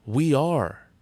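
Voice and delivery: loud, high rallying shout; shouting back. A narrator's reading. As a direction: answer with a team war cry. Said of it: "they shouted back".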